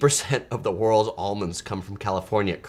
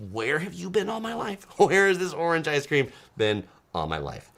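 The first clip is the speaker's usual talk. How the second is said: marveling question, pitched up at the start; retold amazement; 4 semitones higher than usual. Vlogger recalling his first orange ice cream, amazed. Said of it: "I was like".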